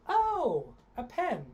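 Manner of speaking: big high oh, then a pen; light up as it dawns on you; surprised realization. Shown as a demonstration. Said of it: "this is how the, the script goes".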